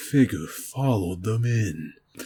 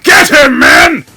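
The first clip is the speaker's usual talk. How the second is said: high, loud command; barked order; 15 dB louder than usual. Acted. Trump ordering his agents, shouting. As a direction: order the guards to attack.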